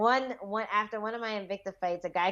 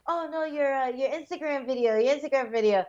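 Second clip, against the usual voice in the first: higher-pitched, flustered fan imitation; suddenly shy; 5 semitones higher than usual. Fighter imitating an embarrassed fan caught out, suddenly shy. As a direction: mimic a man backpedalling shyly. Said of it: "he got real, like, shy".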